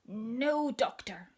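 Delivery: slow, drawn-out no doctor; stubborn child refusal. Acted. Little sister hearing the door again, slow stubborn refusal. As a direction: stretch it out stubbornly.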